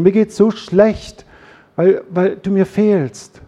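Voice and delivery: acted pleading. Husband telling his partner he misses them, mock pleading. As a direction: stretch it out in a slightly hammed-up lament. Acts out a heartfelt I-message.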